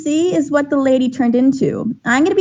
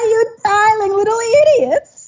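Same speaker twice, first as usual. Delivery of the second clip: drawn-out cackling, very high and slow; 8 semitones higher than usual. Narrating a young lady morphing into a skeletal monstrosity, in a cackling voice. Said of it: "you hear this this cackling voice".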